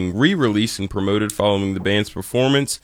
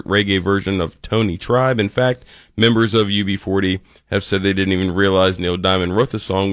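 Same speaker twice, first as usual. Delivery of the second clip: ordinary talk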